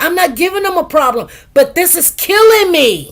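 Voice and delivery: exasperated patient pleading her case; retold protest. Retells protesting pain to doctor.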